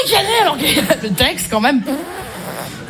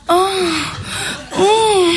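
mock moan. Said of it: "actrice de film porno".

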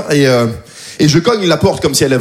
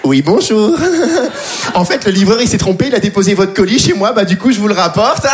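polite neighbor voice. Retold or imitated. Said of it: "cette petite voix un peu plus aiguë".

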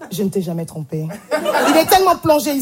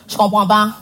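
embarrassed excuse; 3 semitones lower than usual. Retold or imitated. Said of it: "Il a une panne sexuelle".

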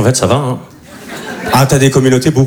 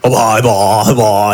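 annoyed ugh; 6 semitones lower, slower than usual. Retold or imitated. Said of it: "elle commence à me faire la morale".

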